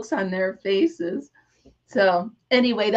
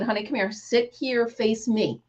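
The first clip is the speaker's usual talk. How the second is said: gentle comfort; 4 dB quieter than usual. Retold or imitated. Comforting crying child gently.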